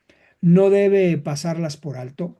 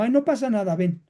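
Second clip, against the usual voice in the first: wrong comfort; 4 semitones higher, faster than usual. Shown as a demonstration. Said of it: "así no se dice".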